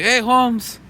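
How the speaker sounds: South African friend's mild take on Chicano slang; imitated mock-Chicano accent. South African friend greeting a Mexican, mock-Chicano accent. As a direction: lightly mimic a Chicano greeting. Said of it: "You think all Mexicans talk like that".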